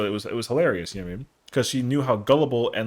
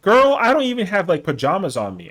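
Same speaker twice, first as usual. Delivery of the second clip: put-on high, loud girl-I-don't protest; exasperated protest; 6 semitones higher, 6 dB louder than usual. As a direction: squeal the objection in disbelief. Protesting she slammed door.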